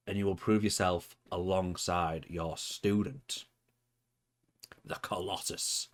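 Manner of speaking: slow, weighty villain manager's charge; cryptic promo. Acted. Manager charges Kronos to prove himself, cryptic promo. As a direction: lay the burden on them with long pauses. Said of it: "after that cryptic promo".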